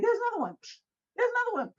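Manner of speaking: high, fast excited calls; excited spotting. Retold or imitated. Gina killing spider crickets, high excited call. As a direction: point them out one after another. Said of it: "she was like".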